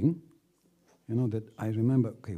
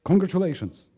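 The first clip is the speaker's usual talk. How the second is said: much higher, louder beaming Darling, congratulations; proud husband; 8 semitones higher, 9 dB louder than usual. Retold or imitated. Husband handing his wife flowers, high and loud with pride. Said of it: "and he says".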